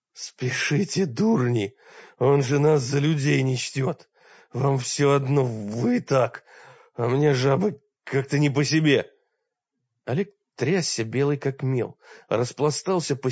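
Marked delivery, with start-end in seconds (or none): 0.1-9.1 changed rasping voice. Acted. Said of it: "изменившийся голос мрака прохрипел".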